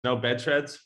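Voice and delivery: "threads" said with a hard T, like "treads"; "No bed threads" with Irish T for TH. Real, not acted. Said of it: "threads as in T H or threads as in the person".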